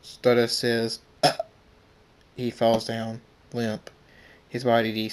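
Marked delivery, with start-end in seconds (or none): 1.2-1.4 short cut-off cry of pain; brief choked "ah" on being stabbed; pained gasp. Acted. Stabbed character's last sound.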